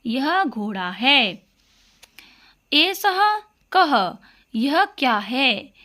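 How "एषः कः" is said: slow model recitation. Shown as a demonstration. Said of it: "उसको संस्कृत में हमें बोलना सीखना है".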